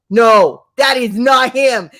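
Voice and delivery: loud disbelieving no, that is not him; shouted denial. Retold or imitated. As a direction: yell it in disbelief. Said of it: "I go".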